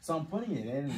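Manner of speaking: normal talking voice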